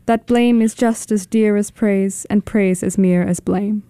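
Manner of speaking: lively, conversational recitation; poem reading. Acted. Kit reading Dickinson's Dear March on the radio, lively recitation. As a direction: greet March like a welcome visitor.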